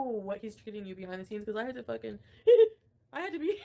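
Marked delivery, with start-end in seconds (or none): 2.4-3.6 loud, fast, choking on laughter; words breaking into real laughter; laughing too hard to finish; laughing fit. Real, not acted. Breaks up laughing mid-sentence.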